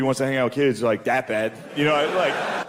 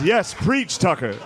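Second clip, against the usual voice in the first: pitched-up call back to the preacher; church congregant; 4 semitones higher, slower than usual. Acted. Dad cheering the TV host like church, congregant's call. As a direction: egg the preacher on from the pews. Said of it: "basically black church for old white dudes".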